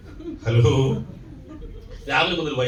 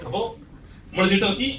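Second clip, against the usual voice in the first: usual speaking voice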